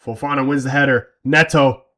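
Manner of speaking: live match commentary voice; play-by-play commentary. Acted. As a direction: call it like a TV commentator.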